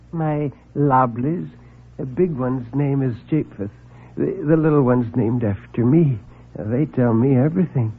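a meek man afraid to speak up; timid little man. Acted. Meek visitor nervously announces a murder.

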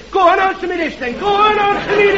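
fast shouted "go on, answer me this"; shouted challenge. Acted. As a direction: shout the challenge back quickly. Heckler shouting back, fast.

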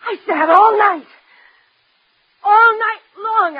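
slow, drawn-out "all night"; anguished emphasis. Acted. Daughter recalling sitting out the dance, anguished slow emphasis.

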